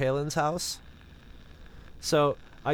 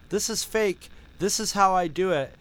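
imitating the hoaxer; 5 semitones higher than usual. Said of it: "he does his videos and he says".

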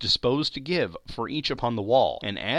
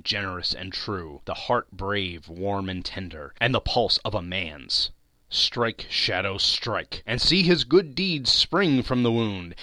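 solemn address. A narrator's reading. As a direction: speak to death solemnly. Solemn speech to death.

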